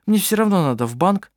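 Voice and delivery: cheerful practical reassurance; friendly young woman. A narrator's reading. Anna-Maria answers kindly.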